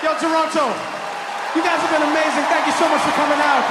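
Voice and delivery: crowd shout-out. Real, not acted. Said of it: "addresses crowd loudly".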